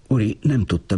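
usual speaking voice

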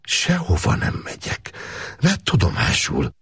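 high, slow defiant refusal; defiant cry. Acted. Girl refusing to go with Gábor, defiant cry. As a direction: refuse him outright, rising to a cry. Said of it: "kiáltotta a lány".

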